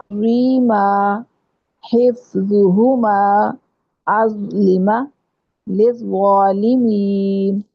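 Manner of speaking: ظ in ظالمین said full and heavy, very slow; heavy letter. Shown as a demonstration. Teacher demonstrating the heavy zo letter in words. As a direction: round and thicken the zo sound. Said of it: "اس کو پر کرنا ہے".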